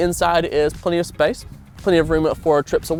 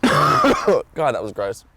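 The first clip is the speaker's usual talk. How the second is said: just swallowed a bug; 2 semitones lower, 5 dB louder, much slower than usual. Real, not acted. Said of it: "Sorry, I just inhaled a fly".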